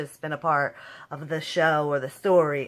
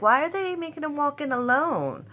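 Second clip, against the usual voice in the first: puzzled; 8 semitones higher than usual. Retold or imitated. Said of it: "I'm like".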